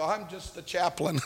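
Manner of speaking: low, hushed, sheepish answer with laughter; meek reply. Retold or imitated. Chaplain answers an angry detainee, meek and hushed. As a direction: shrink back, very soft and low.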